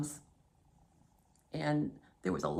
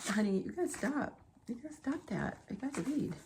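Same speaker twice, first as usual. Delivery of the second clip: soft, higher-pitched plea to a pet; coaxing aside; 5 semitones higher, 5 dB quieter than usual. Real, not acted. Host tells honey to stop so she can read, softly coaxing. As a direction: gently shoo someone dear away mid-recording.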